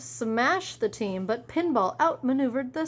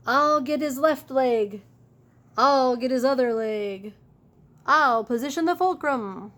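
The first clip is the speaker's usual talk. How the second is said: eager plan; 2 semitones higher, 5 dB louder than usual. Acted. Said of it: "says Elbow Grease".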